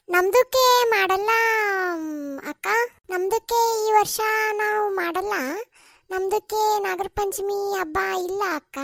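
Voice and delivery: a lightly put-on voice for another woman; lightly voiced Fatima. Fatima telling the women she won't celebrate, slowly.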